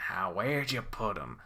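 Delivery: soft mumbled question; mumbling. Acted. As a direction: mumble it to yourself while searching. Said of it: "He's mumbling over me".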